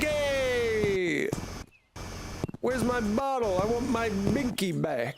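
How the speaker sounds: high, whiny mock baby demanding his bottle. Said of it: "The baby's like".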